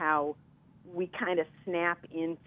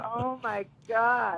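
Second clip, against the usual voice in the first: mock astonishment; 5 semitones higher, much slower than usual. Retold shocked reaction.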